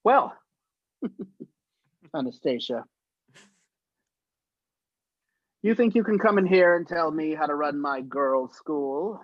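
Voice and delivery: lightly voiced stern headmistress scolding; a hint of a grand old actress reciting. Actress reciting her scene, a hint of a stern headmistress. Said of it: "she'd go".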